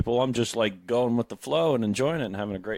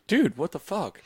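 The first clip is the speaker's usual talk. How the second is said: higher-pitched mock hurt; imitating Zildjian; 6 semitones higher than usual. Imitating a teased bandmate's reply, mock hurt. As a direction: play the touchy friend taking offence. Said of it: "He's pretty sensitive".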